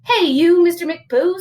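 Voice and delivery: put-on high, loud mama calling her kid out; exasperated storybook mother; scolding mama. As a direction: scold a naughty little boy. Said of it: "said Mama Junebug Jones".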